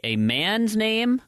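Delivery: "name" drawn out with rising pitch; slow, high stress on "man's name"; careful emphasis. Shown as a demonstration. Setting up Don versus Dawn contrast.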